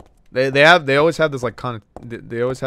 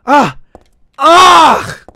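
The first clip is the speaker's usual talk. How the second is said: sudden real yelp of fright, higher and louder; a sharp scared cry at a jump scare; startled scream; 5 semitones higher, 7 dB louder than usual. Real, not acted. Jump scare in haunted house.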